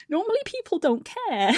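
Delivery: high-pitched mock crying voice; teary. Wife tearful at husband's kindness, mock-weepy. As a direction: squeak it out as if welling up. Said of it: "I started getting teary over that".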